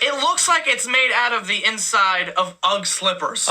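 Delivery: ordinary talk, nothing marked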